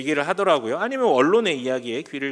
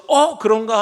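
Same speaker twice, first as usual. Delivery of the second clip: raised, louder startled question; startled doubt; 6 semitones higher, 7 dB louder than usual. Retold or imitated. Lead cyclist reacting to the shout behind him, startled doubt. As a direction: act out a rider suddenly second-guessing himself.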